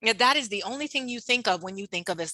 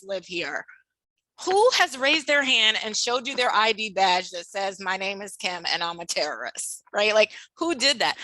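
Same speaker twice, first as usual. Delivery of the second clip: incredulous confronting; 2 semitones higher than usual. Retold or imitated. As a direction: call her out, incredulous. Confronting her mother.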